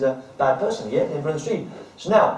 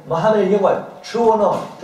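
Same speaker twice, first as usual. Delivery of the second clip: crowd shout; 8 semitones higher, 5 dB louder than usual. Retold or imitated. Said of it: "they're shouting".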